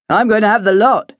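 put-on cheerful young man ordering everything; lightly voiced young man, keen; Simon. A narrator's reading. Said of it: "Simon said".

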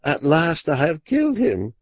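high-pitched, narrated outcry; crying out. A narrator's reading. Woman staring at the dead man, crying out. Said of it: "Then she cried out".

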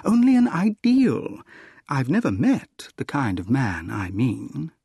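acted woman's airy explanation; Gladys, amused. Voices Gladys explaining her ideal.

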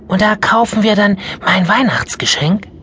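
put-on high, eager child's question; curious. Mia asking grandma, curious. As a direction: lean in wanting to know. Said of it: "erkundigte sich Mia neugierig".

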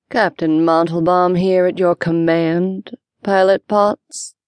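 humor and indignation. Acted. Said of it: "comforting mixture of humor and indignation".

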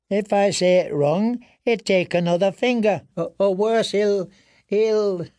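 high, faltering frightened voice; dread. A narrator's reading. Prisoner afraid of losing another finger, high stammering dread.

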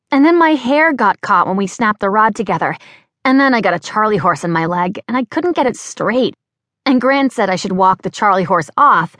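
high, bright-voiced young woman chattering; bubbly young Cressy. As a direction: play the flustered, chirpy girl. Cressy's rambling explanation.

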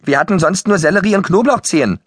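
high, pitiful excuse; plaintive. A narrator's reading. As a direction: defend yourself in a small, high whine. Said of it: "sagte Schlaubi kläglich". (kläglich, hoch gejammert)

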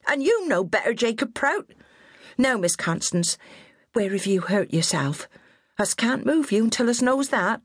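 high, bossy West Country nanny voice; scolding old countrywoman. A narrator's reading. Old nurse scolding her fallen charge, high and bossy.

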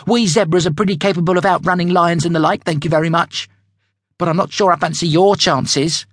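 high, fast smug brag; boastful young zebra. Acted. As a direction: show off to the warthog. Julius boasts to warthog.

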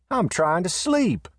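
high, slow, drowsy grumble; slow drowsy annoyance; sleepy complaint. Acted. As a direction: Riata wants to be left to sleep. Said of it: "heard the voice of Riata call out".

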